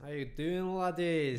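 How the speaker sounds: lightly put-on harsh Scottish accent. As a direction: have a go at a Scottish greeting. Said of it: "a Scottish accent".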